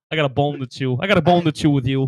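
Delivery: put-on thick Boston accent, punchy. Two drinking buddies riffing, in a thick Boston accent.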